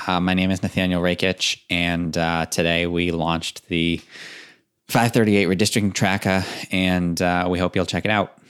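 understated Boston accent. Shown as a demonstration. Analyst introduces the redistricting tracker on request, understated Boston accent. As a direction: put on a very subtle Boston accent. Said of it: "give us your best Boston accent".

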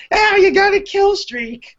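very high, slow squawking comedian; Gilbert Gottfried. Acted. Demonstrating an annoying voice pack, Gilbert Gottfried impression. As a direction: squawk it out as an obnoxious game announcer. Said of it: "possibility of a Gilbert Gottfried".

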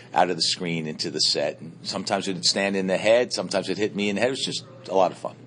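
talking around a lollipop; candy in the mouth while talking; eating a lollipop. Real, not acted. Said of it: "Sorry, but I'm eating a lollipop".

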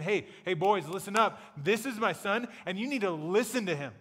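God telling the disciples to listen up; casual fatherly command. Retold or imitated. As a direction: get their attention like a dad. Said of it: "He's saying".

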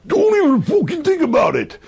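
put-on shouted thick Wigan accent, pitched high. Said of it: "if I do with Tommy's accent".

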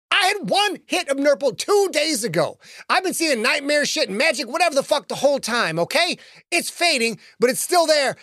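put-on a scared kid insisting he's not high; young Billy, defensive. Billy explains the Nurple to the man in gray, defensive.

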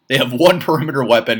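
real exasperated laugh through the words. Real, not acted. Host lamenting the Colts' lack of weapons, laughing. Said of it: "sorry to be laughing about it".

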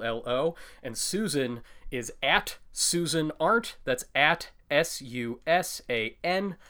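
measured, distinctly separated letters; careful enunciation. Real, not acted. Host spelling Twitter handles for listeners, carefully enunciated. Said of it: "I can enunciate when I want to".

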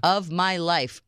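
each word hit slowly and hard; slow, punched delivery; emphatic exclamation. Retold or imitated. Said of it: "exclamation points, hand clap between every word".

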